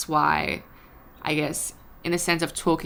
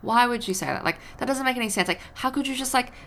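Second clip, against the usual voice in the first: frustrated rant; 7 semitones higher, 4 dB louder than usual. Retold or imitated. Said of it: "when you're frustrated".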